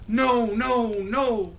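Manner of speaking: high little pig voice. A narrator's reading. Little pig refusing the wolf, high-pitched. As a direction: squeak it back like a scared little pig. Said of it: "he answered back".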